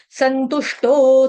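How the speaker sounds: संतुष्टो drawn out slowly; slow syllable by syllable. Shown as a demonstration. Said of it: "तोड़ तोड़ के पढ़ो".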